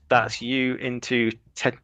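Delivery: stammering cartoon pig voice; Porky Pig stutter. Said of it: "doing my best Porky Pig impression there".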